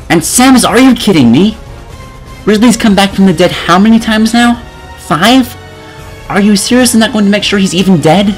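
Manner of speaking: normal talking voice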